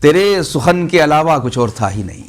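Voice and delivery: measured mushaira verse delivery with pauses; ghazal recitation. Acted. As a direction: recite the couplet to an audience, phrase by phrase. (शायराना अंदाज़ में ग़ज़ल पढ़ना)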